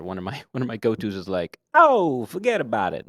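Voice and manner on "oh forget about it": loud New York mobster accent, big on the Oh; brash East Coast wiseguy accent; East Coast gangster. Shown as a demonstration. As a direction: shout it like a Jersey mobster. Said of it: "like, an East Coast, uh, gangster".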